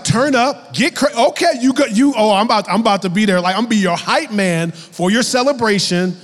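high-pitched, rowdy celebrating; acted party excitement; hype man. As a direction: tumble over your words hyping up a friend. Acting out hyping a celebration.

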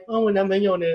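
put-on cutesy baby-talk voice; whiny girlish baby voice. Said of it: "他们娃娃音".

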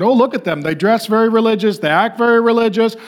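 a hint of a starstruck churchgoer; mock impressed onlooker. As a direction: play the dazzled crowd, mildly. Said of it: "man looks at the outward".

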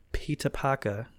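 lightly put-on Cockney, R's dropped; mock Cockney accent. Host quoting the original tweeter's joke, mock Cockney. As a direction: slip into cartoon Cockney for the name.

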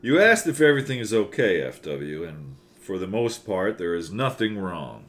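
evil cartoon German accent. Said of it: "evil cartoon German".

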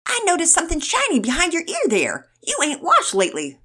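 high, loud Southern drawl; fake Southern drawl. A narrator's reading. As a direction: tease in a hammed-up Southern accent. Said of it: "in his fake Southern drawl".

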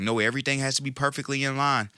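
whiny fussy perfectionist quote. Retold or imitated. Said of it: "those people that just sit and say".

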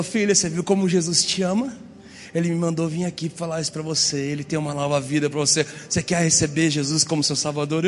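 low, earnest man of God; lightly voiced preacher leading a prayer; gentle prophet. Stranger leads girl to Jesus.

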